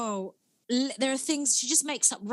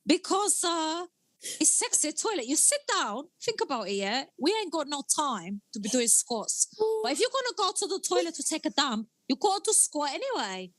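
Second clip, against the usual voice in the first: lightly voiced character, higher and upbeat; Andrewla in character; 5 semitones higher than usual. Answering the podcast host, Andrewla pitches her sexy toilet workout, higher and upbeat. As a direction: sell the workout like a cheeky fitness tip.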